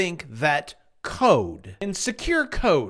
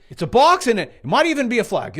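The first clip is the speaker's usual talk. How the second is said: louder and fast on "It's a box, and it might even be a flag"; excited rush; 2 semitones higher, 5 dB louder, faster than usual. Retold or imitated. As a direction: blurt "It's a box" out quickly and loudly. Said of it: "I'm thinking".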